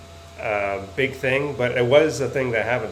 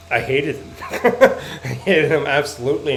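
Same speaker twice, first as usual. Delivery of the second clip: laughing; 3 dB louder, slower than usual. Real, not acted. Laughing about the villain.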